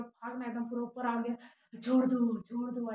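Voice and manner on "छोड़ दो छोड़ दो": a retold yell, the first cry loud and the second dropping back; imitating the girl yelling to be let go; half-hearted imitation of a possessed girl's shout; mock scream. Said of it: "ऐसे कर रही थी".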